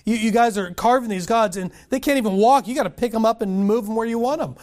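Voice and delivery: mock the idol carvers with scorn; a preacher voicing God's scorn; God mocking idol makers. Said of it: "He's like".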